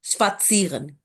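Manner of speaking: स्पात्सियरन with a light t and stronger s; focus on the S. Shown as a demonstration. Teacher telling student not to overdo the t, careful model. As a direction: say "shpat-SEE-ren", easing off the t. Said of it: "ज्यादा स पे focus करें".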